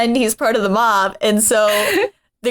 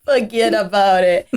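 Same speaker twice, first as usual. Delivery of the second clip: echoing a mock New York accent. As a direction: toss it back in New Yorkese. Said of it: "your New York accent".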